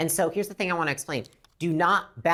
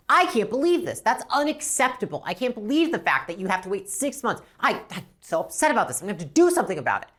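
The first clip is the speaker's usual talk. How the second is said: outdo the customer's anger, then rush the last line; mock outrage; 3 semitones higher than usual. Shown as a demonstration. Rep on the phone outdoing the customer's anger, hammed-up outrage. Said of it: "my rep is gonna get on the phone and be like".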